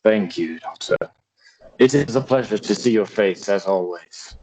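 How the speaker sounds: lightly voiced courteous old lord; British-accented old father. Father greets his daughter after missions, lightly played British accent.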